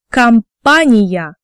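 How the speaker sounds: slow "Компания", first O said as A: kam-PA-ni-ya; unstressed O as A. Shown as a demonstration. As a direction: draw out "Компания" with A for the O. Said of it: "when the O sound in a word is not stressed".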